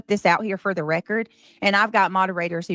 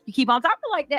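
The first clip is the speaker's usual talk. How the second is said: lightly voiced scolding mother; a hint of a nagging mom; mock mama telling her child off; imitating a scolding mama; 7 semitones higher, faster than usual. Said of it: "something your mama would say".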